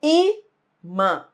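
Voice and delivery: Imã split into I, then MÃ, with a pause between; syllable by syllable. Shown as a demonstration. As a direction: separate the two syllables of Imã, I first and strong. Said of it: "identificar a sílaba forte". (Imã dito sílaba por sílaba, com pausa)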